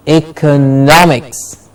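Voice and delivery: "Economics" slowly, ee-kuh-NOM-iks; slow model of "Economics", beat on "nom"; stress before -ics. Shown as a demonstration. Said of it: "the syllable before ix is stressed".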